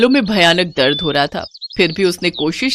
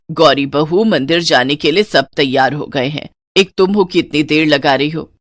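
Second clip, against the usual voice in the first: put-on lower, firm old-fashioned mother-in-law; stern mother-in-law; 4 semitones lower than usual. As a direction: lay down the house rules to the new bride. Mother-in-law scolds the bride.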